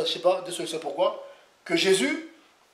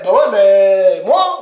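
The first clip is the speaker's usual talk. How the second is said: baffled self; 6 dB louder, much slower than usual. Retold or imitated. Acted exchange about name in China.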